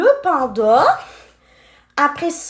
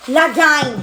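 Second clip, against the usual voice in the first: calling out to the viewers, lively; excited call. Real, not acted. Showing the toy to her viewers, excited call. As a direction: hail the gang with glee.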